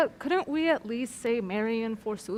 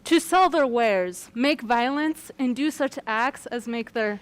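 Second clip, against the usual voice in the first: iambic verse recitation; 4 dB louder than usual. Acted. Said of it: "but why are you talking like that?".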